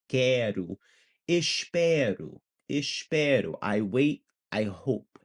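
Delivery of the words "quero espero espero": "Quero", "Espero" drawn out with a light tapped R. Shown as a demonstration. Teacher models the Portuguese words, tapped-R "espero". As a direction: flick the R in "espero", falling at the end. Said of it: "It's that sound right there".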